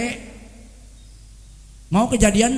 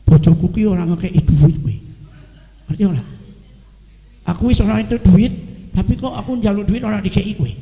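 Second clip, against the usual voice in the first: lower, louder grumbling wife in Javanese; complaining wife; 4 semitones lower, 4 dB louder than usual. Retold or imitated. Wife complaining to friends about husband's money, lower and louder. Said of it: "ngobrolnya itu bukan begini".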